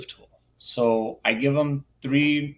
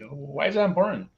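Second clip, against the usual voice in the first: lightly feigned puzzlement, a little higher; acting dumb; 4 semitones higher than usual. Teacher tests student's reasoning, playing dumb. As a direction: play innocent, as if clueless. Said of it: "I'm gonna act dumb here".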